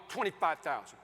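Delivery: mild, measured authority; authoritative. Retold or imitated. Husband setting his wife a budget, authoritative. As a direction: lay down the figure firmly.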